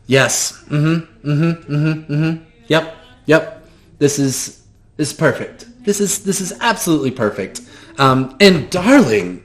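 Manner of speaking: high, gushing theatrical voice; flamboyant shopkeeper. Acted. GM greeting the player as eccentric shopkeeper, high and gushing. NPC inspecting approvingly.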